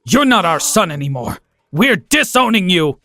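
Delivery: a touch of a furious father, slowing at the end; mild scream. Acted. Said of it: "my dad screamed".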